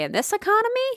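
mock sarcasm. Joking aside in the plug.

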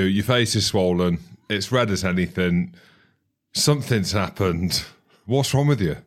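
holding back laughter; reading through suppressed giggles; stifled giggles. Real, not acted. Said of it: "I'm trying not to laugh".

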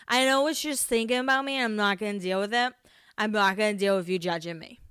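put-on lightly slurred drunk talk, words running together; wasted drunk self. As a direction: imitate your drunk self, speaking in cursive. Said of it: "It's like cursive. I'm speaking in cursive".

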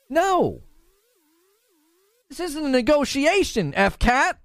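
indignant insisting. Pretend. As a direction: refuse to bargain, half-laughing. Insisting in mock negotiation.

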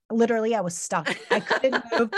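retelling through real laughter; laughing. Real, not acted. Host retells her splits mishap to friends, laughing. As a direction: let laughter break into the words.

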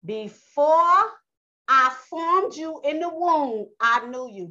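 lightly voiced God, high and loud on "Before"; Yah speaking. Preacher quoting Yah to Jeremiah, lightly proclaimed. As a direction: proclaim it slowly as God's word. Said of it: "This is what Yah said".

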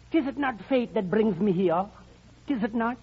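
put-on flowery talk in a German accent. Man posing as a German woos singer, German accent. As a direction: court her grandly, German-accented. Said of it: "where did you get that German accent".

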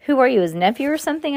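high, fast, excited clown. A narrator's reading. Clown Maury quizzes the visitor, in a high, fast voice. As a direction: blurt it out, high and quick.

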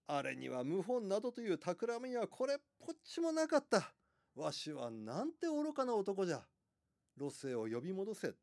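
lightly voiced regretful old emperor; creaky wise old man.

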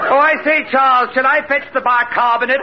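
upper-crust English voice; posh English accent. Acted. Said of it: "Archie the hypnotist".

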